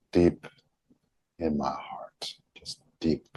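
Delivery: sighed out, sinking to a near-whisper; relaxed. Shown as a demonstration. Modeling a relaxed chest for followers, relaxed. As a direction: let the breath go and speak very softly. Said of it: "the tone of the voice, the relaxation in the chest".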